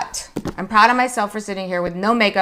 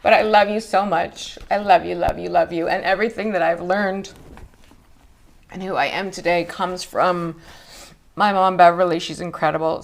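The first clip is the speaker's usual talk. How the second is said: crying. Real, not acted. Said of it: "that's why I'm crying".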